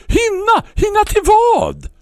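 irritated reply across the yard; irritated shout. Acted. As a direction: snap the question back in irritation. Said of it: "fortfarande minst sagt irriterad".

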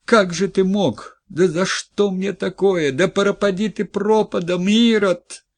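high, loud scream of despair, stretched slow; wife howling at her husband's ruin; desperate scream. Acted. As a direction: scream it at him, betrayed and frantic. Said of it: "отчаянный, истошный крик".

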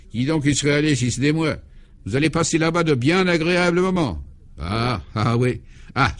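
put-on wistful old priest. Clovis sends them off.

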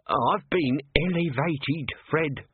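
slow, drawn-out moaning complaint; mild moan. Acted. Nobby to his sergeant, slow and moaning. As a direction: moan it out slowly like bad news. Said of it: "moaned Nobby".

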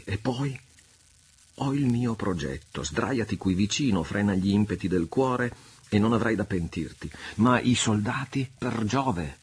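Yanez voice. Acted. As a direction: Yanez planning with his friend. Higher voice for Yanez.

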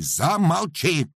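loud, high, drawn-out order; commanding shout. Acted. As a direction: cut him off sharply. Master silences Paramon.

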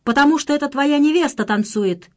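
loud, high cold jibe; icy shout. A narrator's reading. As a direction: throw it at him with icy scorn. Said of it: "ледяным голосом прокричала Марина". (ледяной крик)

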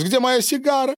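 high, loud demanding cry; exclaiming. A narrator's reading. Boris demands his cigar in a high, loud cry. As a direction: GDE shouted high. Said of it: "воскликнул Борис".

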